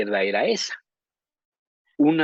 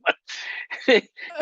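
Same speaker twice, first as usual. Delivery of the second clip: laugh. Real, not acted. Laughs at own joke.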